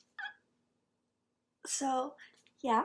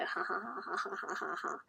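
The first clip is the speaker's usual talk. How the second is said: laughing; 3 semitones lower, 11 dB quieter than usual. Real, not acted. Laughing at Reddit post.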